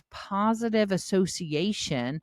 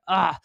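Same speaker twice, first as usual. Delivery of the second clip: disgusted ugh; 6 dB louder than usual. Retold or imitated. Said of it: "I do walk in and go".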